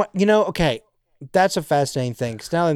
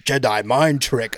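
Jabba; 2 semitones lower than usual. Acted. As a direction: make yourself bigger and rumble out alien babble. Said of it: "while you're doing the Jabba impression".

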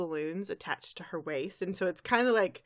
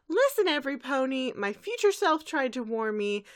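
announcing; 6 semitones higher than usual. Retold or imitated. Twilight from the pillar to all ponies, urgent call. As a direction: address the crowd urgently. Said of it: "She goes".

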